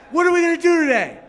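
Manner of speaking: high, loud, fast and thrilled puppy; excited dog voice. Retold or imitated. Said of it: "He goes".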